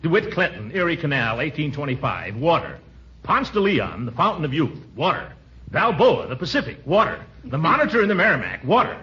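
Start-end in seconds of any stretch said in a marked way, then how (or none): 3.2-9.0 building pompous list. Acted. New commissioner lecturing the family, pompous build. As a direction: build the list to a grand finish.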